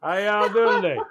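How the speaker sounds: put-on Southern accent. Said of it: "Can you imagine that translator?".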